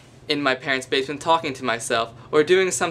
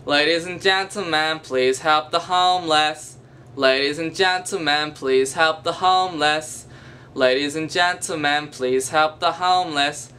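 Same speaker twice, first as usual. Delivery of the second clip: mild imitation of a street beggar's repeated chant; beggar's jingle. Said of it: "It might sound like this".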